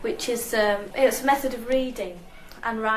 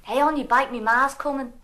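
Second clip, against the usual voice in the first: Scouse warning; 3 semitones higher, 3 dB louder than usual. Acted.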